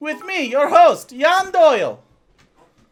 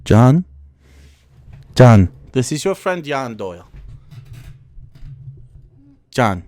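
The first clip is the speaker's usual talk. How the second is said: low mock call; 3 dB louder than usual. Calling John in low voice.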